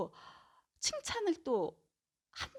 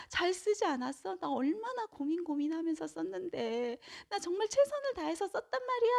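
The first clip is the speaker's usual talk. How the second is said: higher voice, imitating a child on the verge of tears; hurt, whimpering protest, pitched up; tearful child; 7 semitones higher than usual. Child protesting to mom that the diary was done well, higher and imitating tears. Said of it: "울먹울먹거리면서 얘기하는 거예요".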